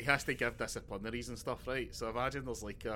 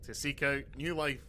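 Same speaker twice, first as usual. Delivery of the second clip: slow, grand captain's address; hammed-up Picard opening speech; slower than usual. Mocking the captain's daily intercom speech, slow and grand. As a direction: stretch it out like a pompous broadcast.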